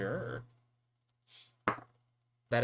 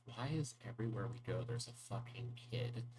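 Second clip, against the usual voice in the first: soft grumble under the breath; quiet in-character muttering; muttering to herself; 7 dB quieter than usual. Acted. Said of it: "she mutters to herself".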